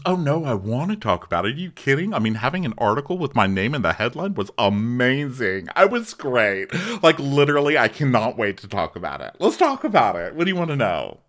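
bright eager gush; eager excited impression. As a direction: gush like you're thrilled. Voicing Noella eager.

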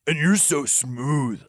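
slow, lightly rasped compliment. A narrator's reading. Lucian returns the lover's compliment, rasped. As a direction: draw it out with some rasp. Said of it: "Lucian rasped".

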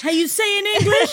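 high, exaggerated fake Spanish accent; mock Spanish accent. Co-host mocking a woman faking it, exaggerated Spanish accent. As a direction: echo it in a hammy Spanish accent. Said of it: "making fun of her a-, acento".

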